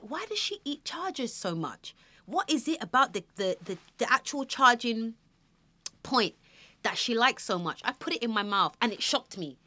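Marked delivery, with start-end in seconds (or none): 0.0-7.8 puzzled mother. Retold or imitated. Puzzled about baby eating chargers.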